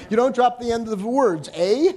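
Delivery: put-on playful Canadian accent with a tagged-on eh; light imitation of a Canadian, eh on a rise; mock Canadian. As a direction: tease the Canadians, ending on a Canadian eh. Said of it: "Canadians who lose their hearing".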